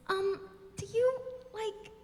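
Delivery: put-on high, halting, timid girl's voice; mock an unsure helper, pausing between words; hesitant. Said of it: "and hesitantly takes your arm".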